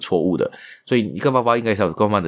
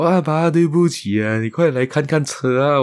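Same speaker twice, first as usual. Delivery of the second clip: put-on crying child; 8 semitones higher than usual. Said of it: "一边哭跟他爸说".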